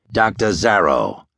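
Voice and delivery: lightly voiced menacing doctor, deep and rasping; a hint of a sinister broadcaster, rasping; deep harsh rasp. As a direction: rasp the announcement slow and grim. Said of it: "he rasped in a deep, harsh voice".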